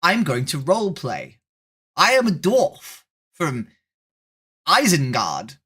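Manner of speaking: high, fast mock voice of a nerdy stranger; whiny mock-nerd voice, slowing into the dwarf intro; mocking a roleplay nerd. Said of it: "I hate it when people are like".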